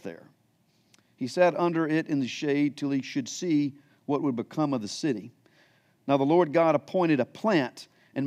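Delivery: measured, solemn Bible reading; scripture reading. Acted. Pastor reading scripture to the church, solemn and measured. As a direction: read the passage to the congregation with weight. Continues reading verse three on.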